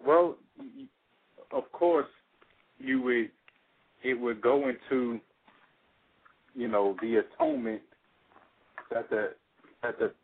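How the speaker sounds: muffled, as if hand over mouth. Real, not acted. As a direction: talk through a covered mouth. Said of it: "you came off kind of muffled right there".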